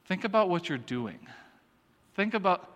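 quiet "think about what you're doing", falling away after "think about"; parental inflection. Shown as a demonstration. A parent prompting kids to reflect, pointed inflection. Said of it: "you gotta hear the inflection".

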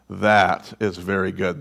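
low, soft, awed murmur; hushed awe. Retold or imitated. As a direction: hold it quiet, in wonder at his creation. God awed, hushed, slow.

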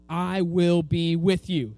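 slow, measured, weighty quote; lightly voiced God, word by word; slow, deliberate reassurance; God's promise. Voicing God's promise to Moses.

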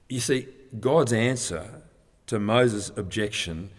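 normal talking voice

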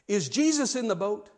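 measured question, lifted in pitch; pointed question. Retold or imitated. Jim asking the young preacher a question, pointed but measured. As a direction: pose it simply and leave it hanging.

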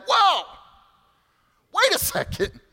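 high-pitched, stop-everything "whoa"; acted-out indignant interruption; startled objection. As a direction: cut in with a high, alarmed protest. Jewish Christians object to Paul's message.

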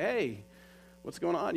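retold calling after. Storyteller to Tiger as he turns around to go, calling after. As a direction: re-enact stopping a friend with a question.

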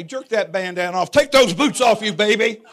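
wanting to tell the biker off, hammed-up tough; mock tough talk. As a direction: play the tough guy for laughs.

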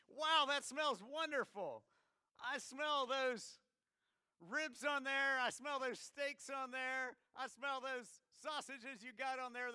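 put-on high, loud and drawn-out, no British accent; hammed-up delighted prince. Prince sniffing the congregation's barbecue, high, loud, slow rapture. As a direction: overdo the wonder at the grill smell. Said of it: "I'm not gonna try a British accent".

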